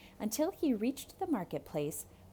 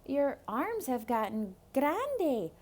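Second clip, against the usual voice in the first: put-on higher curious boy; 5 semitones higher than usual. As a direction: ask like a curious kid. Boy Rico.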